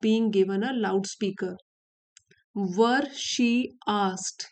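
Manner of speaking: slow, deliberate reading of the English text; story reading. Acted. Teacher reads the story to her students, slow and careful. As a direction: read each phrase out slowly for learners.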